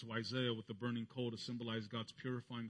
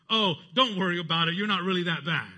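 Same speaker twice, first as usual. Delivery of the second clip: higher, louder, mock-comforting voice; soothing reassurance; 5 semitones higher, 11 dB louder than usual. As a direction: play the falsely comforting friend. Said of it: "He doesn't say".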